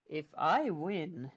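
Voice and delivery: a big creature rumbling low and slow; low troll. Acted. Troll answering the boy's challenge, low and slow.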